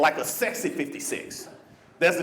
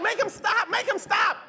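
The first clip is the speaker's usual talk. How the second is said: mock embarrassed plea; 14 semitones higher than usual. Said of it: "She's like".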